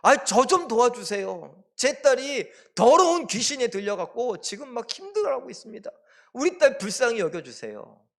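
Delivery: high, loud, insistent plea; desperate pleading. Acted. Mother begs Jesus for her afflicted daughter, pleading. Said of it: "그 말을 들었던 이 여인이".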